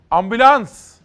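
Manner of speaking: loud, high call for an ambulance; retold cry for help. Anchor reading a witness account, acting out the woman's loud, high cry for help. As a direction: shout it out like the woman calling for help. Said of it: "diye bağırdı".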